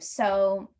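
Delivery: "so" drawn out, unfinished; trailing off. Acted. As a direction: leave "so" hanging for the listener. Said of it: "he trails off in that".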